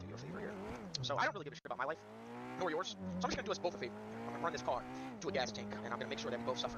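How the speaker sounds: lightly voiced calm threat; menacing troll. Menacing roleplay to victim.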